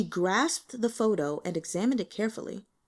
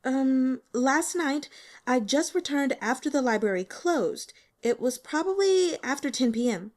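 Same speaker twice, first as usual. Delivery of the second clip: put-on higher, louder young woman, hesitant and eager; nervous student girl; 6 semitones higher, 4 dB louder than usual. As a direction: play the shy student a bit higher and louder. Voices the student Li Tian.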